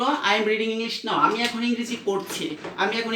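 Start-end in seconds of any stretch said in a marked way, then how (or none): 0.0-1.1 drawn-out, very slow reading; teacher spelling out the example sentence. Shown as a demonstration. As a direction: read the quote slowly and clearly. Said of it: "রহিম সাবিনাকে বলল".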